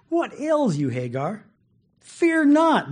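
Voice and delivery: high, loud call from heaven; mildly booming angel; voicing the angel. Angel voiced calling to Hagar.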